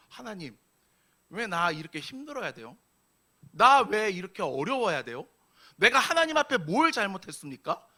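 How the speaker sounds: complaint building to a loud, high protest; arguing with God. Acted. Struggling believers asking God why, increasingly argumentative. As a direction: start aggrieved, build to indignant questioning. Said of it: "따지기 시작합니다".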